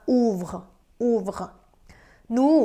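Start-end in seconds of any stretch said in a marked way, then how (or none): 0.1-1.5 OUVRE modelled as 'oovr', falling at the end; pronunciation demo. Shown as a demonstration. Teacher showing learners how three verb forms sound alike, pronunciation demo. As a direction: say OUVRE as one syllable, 'oovr'. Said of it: "สามตัวนี้ออกเสียงว่า".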